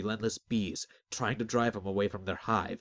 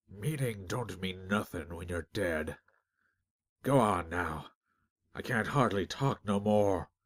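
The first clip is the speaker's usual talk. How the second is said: slow, slurred through a swollen tongue; slower than usual. Acted. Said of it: "Peg slurred".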